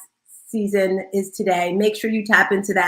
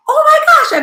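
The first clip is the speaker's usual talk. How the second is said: very high, loud squeal; thrilled squeal; 9 dB louder than usual. Retold or imitated. Host reliving her podcast ranking, very high loud squeal. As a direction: squeal like you just won something. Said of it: "and I got super excited".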